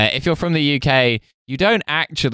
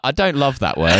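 mock outrage; 3 semitones higher than usual. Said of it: "and I'm like".

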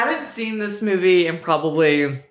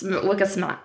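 put-on Boston accent; 4 dB quieter than usual. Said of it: "my Boston or Massachusetts accents".

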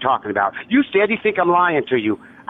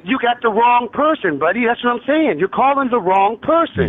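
exasperated insistence; 5 semitones higher than usual. Real, not acted. Victim insists on wrong number.

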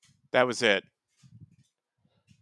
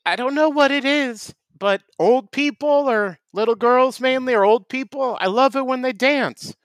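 high, fast eager character voice; goofy Tim voice; 5 semitones higher than usual. Acted. Tim telling Matt he loves dancing, high eager voice. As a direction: gush like an odd enthusiast.

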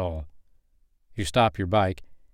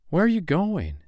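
much higher, exasperated disbelief; incredulous question; 10 semitones higher than usual. Acted. Woman demands where the desert walker is headed, incredulous. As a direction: ask it as if he's lost his mind. Woman presses the walking stranger.

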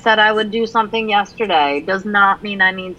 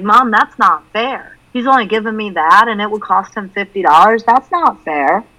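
whiny daughter; 3 semitones higher than usual. Retold or imitated. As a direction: protest the unfair deal. Daughter complaining, voiced.

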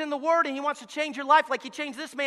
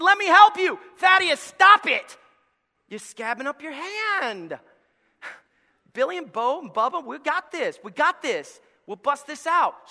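eager friends rallying round; friends offering help; 3 semitones higher, 4 dB louder, slower than usual. Acted. Friends reassuring the crippled man, eager.

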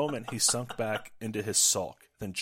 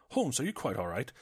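concerned British gentleman, pitched a little higher; lightly British, raised-pitch query; a touch of worried British companion; Watson in slight British accent; 4 semitones higher than usual. Acted. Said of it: "slight British accent for Watson".

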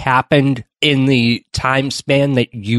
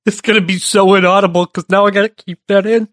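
laughing; 7 semitones higher, 4 dB louder, faster than usual. Real, not acted. Talking through laughter.

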